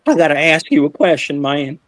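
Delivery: lightly voiced country father; a hint of the farmer dad. Farmer dad questioning his daughter's date, mildly imitated. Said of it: "That's how he sounded".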